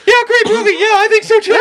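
hammed-up choked-up falsetto; voice gone way up. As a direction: fake casual chat with a choked-up high voice. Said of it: "your voice goes up about five registers".

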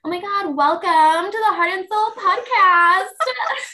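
put-on high, drawn-out Valley Girl accent. Shown as a demonstration. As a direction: gush it like an over-the-top Valley Girl. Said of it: "my immediate go-to is Valley Girl".

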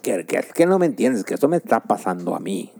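put-on Spain Spanish accent. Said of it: "la peor imitación de acento español".

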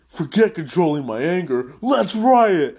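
builds to a high, loud shout on riot; mock gleeful yell. The tough prisoner giving up on calm, shouting for a riot. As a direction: fling the self-control away and yell. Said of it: "the guy from earlier".

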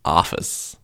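"Office" in a put-on American accent, opened to "ah-fiss"; terrible American accent. Shown as a demonstration. Showing the American vowel to a friend, terrible American accent. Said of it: "renowned for being terrible American accent".

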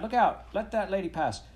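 high, loud calling over a crowd; acted boy's urgent shout; urgent cry. A narrator's reading. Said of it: "he cried".

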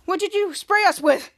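mildly shocked demand for an answer; confused and shocked. Acted. Sprayed hero questioning the villain, confused. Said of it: "who was confused and shocked".

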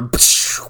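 whooshing mouth-made explosion; hissing whoosh into a rough burst; imitated rocket blast. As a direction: voice a launch and blast with the lips. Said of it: "and then you hear".

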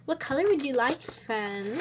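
whispered question; ASMR whisper. Shown as a demonstration. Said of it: "I'm gonna do some A S M R".

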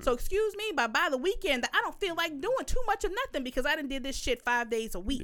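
retold angry rant, emphatic and swinging in pitch; pissed-off telling-off. Mother telling off child who called her lazy, pissed-off rant. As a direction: act out a mother reading her child the riot act. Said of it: "I instantly got pissed off".

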